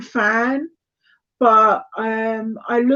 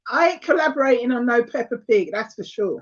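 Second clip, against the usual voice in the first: hammed-up Cockney refusal; 3 dB quieter than usual. Shown as a demonstration. Asked about Peppa Pig, refusing in a put-on Cockney voice. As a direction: put on a Cockney accent, dropping away at the end. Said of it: "my Cockney voice".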